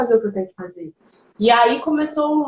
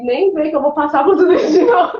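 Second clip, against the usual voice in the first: laughing refusal; 3 semitones higher, 3 dB louder than usual. Retold or imitated. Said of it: "E aí eu falei".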